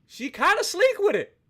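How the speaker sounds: admiring. Real, not acted. Admiring the ship's look.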